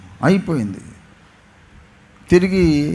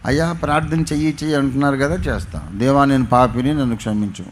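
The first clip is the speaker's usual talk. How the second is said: sarcastic; faster than usual. Retold or imitated. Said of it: "వెటకారంగా అన్నాడు".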